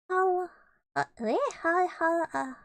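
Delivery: high squeaky stammer, hunting for the word; high, breathless little stammer; Piglet stammering. Acted. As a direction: stutter it out like a panicked little pig. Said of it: "he's, like, saying different words".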